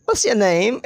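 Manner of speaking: "What's your name" run together as one word; connected speech. Shown as a demonstration. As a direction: link "What's your name" quickly without gaps. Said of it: "So that is a bit fast".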